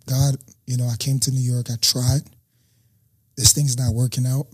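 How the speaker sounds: an ultimatum prayed quietly under his breath; hushed prayer. Retold or imitated. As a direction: murmur it like a last prayer.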